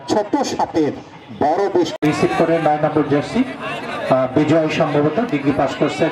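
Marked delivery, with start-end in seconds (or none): 0.1-3.4 frantic football commentary. Acted. Live play-by-play.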